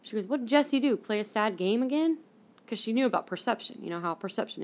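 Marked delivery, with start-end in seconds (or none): 0.3-2.2 exasperated mom. Retold or imitated. Voices mom guessing why she cries.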